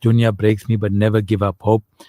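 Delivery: ordinary talk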